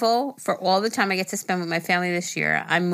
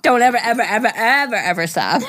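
louder and higher, laughing through each ever; laughing plea; 4 semitones higher, 6 dB louder than usual. Retold or imitated. Host echoing the listener's plea never to stop, laughing. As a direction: beg them gleefully while giggling.

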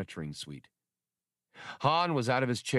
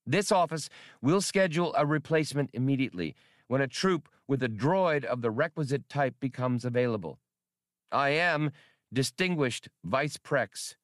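raised, fast formal recorded message; reconstructed message; 5 semitones higher than usual. Acted. Played-back message addressed to the Vice President, formal. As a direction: read it like a stiff official transmission. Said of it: "the audio reconstruction began".

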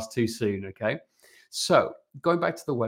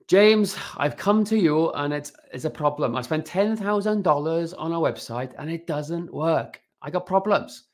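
put-on Welsh accent, pitched up; 5 semitones higher than usual. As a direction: play the client with a Welsh accent. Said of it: "the whole question that they ask you in a Welsh accent".

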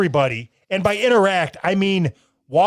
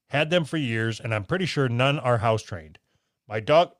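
lower, even reading voice; letter read-aloud; 5 semitones lower, 3 dB quieter than usual. Real, not acted. Host reading a listener's letter to co-host, read-aloud. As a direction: read the letter out in a low, measured tone.

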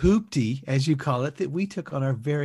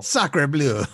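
put-on French accent; 2 semitones lower than usual. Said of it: "stinky Frenchman".

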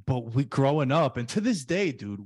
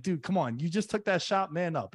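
mock buddy pep talk; 6 semitones higher than usual. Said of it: "turned to one of our buddies".

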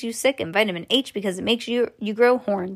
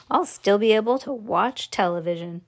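ordinary delivery

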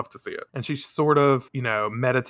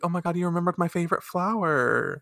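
quick, higher, softer mock gush; imagined delight; 4 semitones higher, 5 dB quieter, faster than usual. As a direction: lightly act out being touched by a gift. Imagines Rei delighted by flowers.

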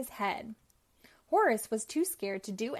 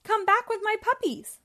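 screeching villain; 10 semitones higher, 6 dB louder than usual. Acted. Cruella yells after truck.

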